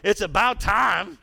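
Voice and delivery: loud, slow, laughing and crying at once; laughing through tears. Retold or imitated. Mama Lo laughing and crying as she's made family pastor. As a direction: burst out joyful, tearful. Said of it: "She just started smiling and crying".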